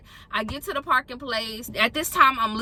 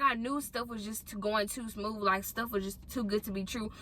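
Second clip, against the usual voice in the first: much softer, as if thinking aloud; quiet retold grumble to herself; resigned; 2 semitones lower, 12 dB quieter than usual. Traveler doubting her smooth day, quietly resigned.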